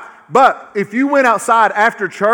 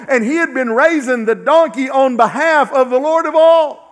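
full-force preaching; 3 semitones higher than usual. Acted. Preacher driving home the Lord of all, at full force. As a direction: preach it to the back row.

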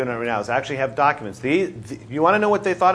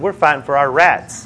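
imitating a Tennessee farmer saying "rights" as "rats"; "rats" with a flat Southern a, the way the farmer said it; mock Southern accent; Tennessee drawl; 4 dB louder than usual. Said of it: "that's the way he says it".

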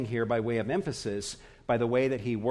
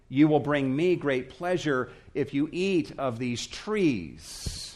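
mildly voiced emphatic invitation; emphatic insistence. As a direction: press the key words as a generous host. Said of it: "God is saying this emphatically".

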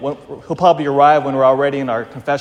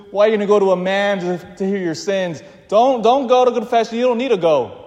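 tempting voice; 5 semitones higher than usual. Acted. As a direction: lightly play the voice talking sinners out of confession. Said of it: "One voice will say to us".

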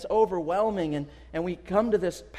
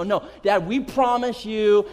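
put-on kids promising; 3 semitones higher, 5 dB louder than usual. Kids swearing to dad again, insistent. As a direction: stretch out an earnest kid promise.

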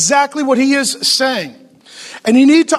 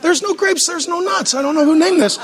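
puzzled consumer; 5 semitones higher than usual. Retold or imitated. Joking about grape nuts to the congregation, mock puzzled. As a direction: play it like someone staring into a cereal box. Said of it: "and it's like".

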